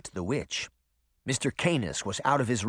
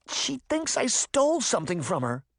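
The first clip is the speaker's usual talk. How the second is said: put-on much higher, strained young girl's voice; choked; 12 semitones higher than usual. A narrator's reading. Sabrina just freed from the witch's grip, choked. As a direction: choke out a protest, pitched up. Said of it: "Sabrina choked".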